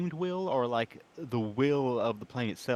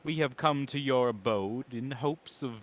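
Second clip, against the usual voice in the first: slow, formal in-character greeting; 2 semitones higher, slower than usual. Acted. Francis greets Mister Nib formally in character, slow. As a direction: address the host politely, in character, slowly. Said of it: "instead, I'll say".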